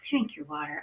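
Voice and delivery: high, hushed little nudge; soft reminder. Pretend. Host gently reminding viewers to hydrate, high and soft. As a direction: say it small and high, as a gentle prompt.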